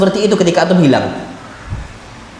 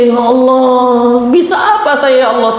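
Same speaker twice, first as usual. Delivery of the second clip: mild mock lament; slower than usual. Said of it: "terucap di dia".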